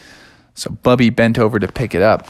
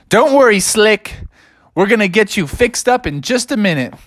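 reassuring bear; 8 semitones higher than usual. Acted. Bear reassures bitten friend.

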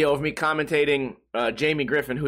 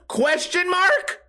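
much higher, slow rising question mark; questioning inflection; 12 semitones higher, much slower than usual. Shown as a demonstration. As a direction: overdo the unsure upward lilt. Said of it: "that weird inflection when you're asking a question".

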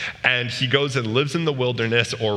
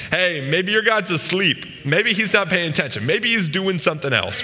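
taunting; 5 semitones higher than usual. Retold or imitated. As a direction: needle them like a bored heckler. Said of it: "taunting them".

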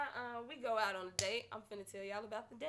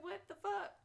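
scolding herself; 6 semitones higher, 5 dB louder than usual. Retold or imitated. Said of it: "I was like".

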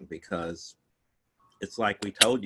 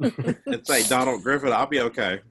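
mouth full; 3 semitones higher than usual. Real, not acted. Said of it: "you can't hear me chewing".

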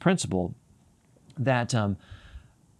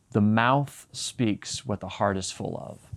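slow, weighty quote; slower than usual. Shown as a demonstration. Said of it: "I hate that Jesus says that".

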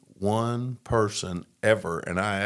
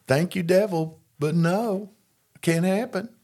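firm refusal; 9 semitones higher than usual. Retold or imitated. Refusing the devil, retold.

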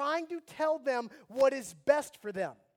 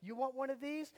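mock taunt; 5 dB quieter than usual. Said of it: "I'm gonna go".

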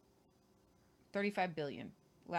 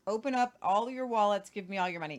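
bank robber. Retold or imitated. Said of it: "It sounds like a thief".

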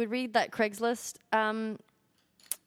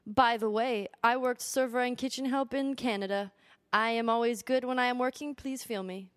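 put-on Korean accent. Co-host reading a job seeker's letter, mock Korean accent. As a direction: read it out in an attempted Korean accent. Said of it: "I can't do a Korean accent".

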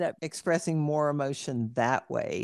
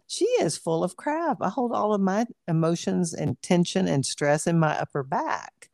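high-pitched inner protest; inner scoffing; 3 semitones higher than usual. Retold or imitated. Yoga student silently doubting her instructor, scoffing. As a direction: scoff privately, pitch lifted. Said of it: "But inside I'm going".

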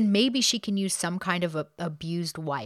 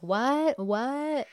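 shocked what; 7 semitones higher than usual. Retold or imitated. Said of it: "And she's like".

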